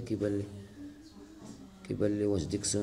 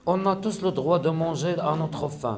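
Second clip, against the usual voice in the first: slow, raised-voice French diction reading; poem recitation; 6 semitones higher, 4 dB louder, much slower than usual. Shown as a demonstration. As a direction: recite the line slowly and higher for pupils. Reads the poem aloud. (إلقاء قصيدة ببطء وبصوت مرتفع)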